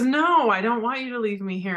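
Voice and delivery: high, pleading child's voice, a touch of mock tears; upset little girl. Daughter pleading with her father at the store, mildly tearful. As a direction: lightly voice the crying daughter begging. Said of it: "she started crying".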